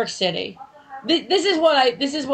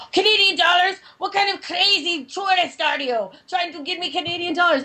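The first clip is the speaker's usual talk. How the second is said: mock outraged shouting, somewhat higher; screaming cab driver; 4 semitones higher than usual. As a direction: play an indignant, screaming cabbie. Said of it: "who's screaming at me".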